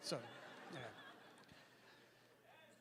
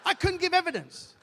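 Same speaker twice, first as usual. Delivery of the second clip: high, loud giggling protest; laughing denial; 9 semitones higher, 6 dB louder than usual. Acted. Witness insisting he saw nothing, high and laughing.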